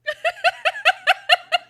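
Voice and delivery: big high-pitched burst of laughter; loud high laugh. Real, not acted.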